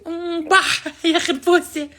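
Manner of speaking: slow put-on girly kiss; man doing a woman's voice.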